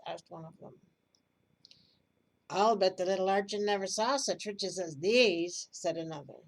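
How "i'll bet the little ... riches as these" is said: loud boast. Acted. Drunken men boasting over jewels.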